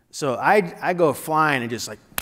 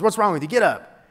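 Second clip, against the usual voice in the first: mild mock coach yell, higher; retold coach yell; 4 semitones higher, 3 dB louder than usual. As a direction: imitate an angry coach, held back. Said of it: "And coach is yelling".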